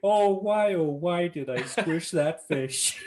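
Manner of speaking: high wail, slowing to the end; hammed-up cartoon anguish; mock lament. Acts out Homer regretting the squished fish.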